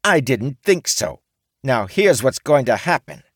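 high, loud menacing demands; T dictating terms to the samurai; threatening orc woman. A narrator's reading. T lays down terms.

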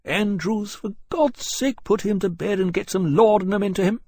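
high-pitched, exasperated order; commanding officer. A narrator's reading. Captain sending the struggling lieutenant to bed, commanding.

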